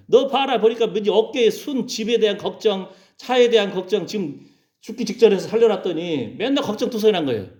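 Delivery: high, exasperated rebuke; acted scolding. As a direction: tell off someone you just rescued. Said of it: "그러면서 호통을 치는 거예요".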